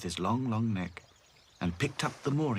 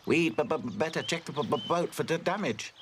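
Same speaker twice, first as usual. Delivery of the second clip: stammering; 6 semitones higher than usual. A narrator's reading. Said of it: "said Hi-Fi".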